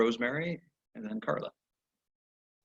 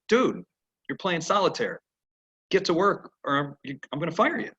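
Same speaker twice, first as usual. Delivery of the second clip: mock boss; 6 semitones higher than usual. Boss voiced scolding.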